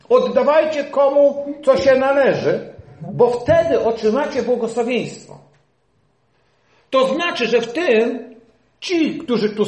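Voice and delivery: loud, high preacher's proclamation; forceful preaching. Acted. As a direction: drive the command home to the church. (głośne, żarliwe kazanie)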